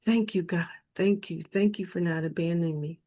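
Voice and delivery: hushed, mildly tearful retold thanks; quiet understated crying gratitude. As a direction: softly relive thanking God through tears. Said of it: "I burst out in tears".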